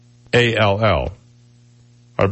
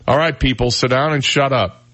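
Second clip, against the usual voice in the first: stern teacher, lightly done; 5 semitones higher than usual. Retold or imitated. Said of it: "I had teachers who".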